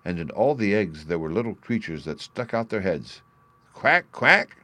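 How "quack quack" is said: high, loud quack quack; loud ducklings quacking. A narrator's reading. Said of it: "they said".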